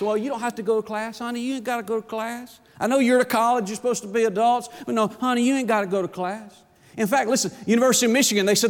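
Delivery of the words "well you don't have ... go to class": sarcastic pet talk. Acted. Preacher mocks students, calls them honey.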